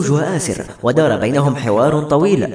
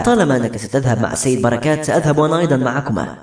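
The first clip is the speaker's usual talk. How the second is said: ordinary delivery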